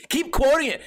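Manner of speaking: high, annoyed mock encouragement; hammed-up fed-up jab; sarcastic exasperation. Telling friend who quotes unseen movie, sarcastic.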